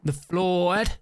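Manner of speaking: put-on slow Southern US accent, leaning on Floyd; Southern cop accent. Streamer introduces her old GTA roleplay cop in a Southern accent. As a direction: drawl the name like a Southern lawman. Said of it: "which is who you're hearing right now".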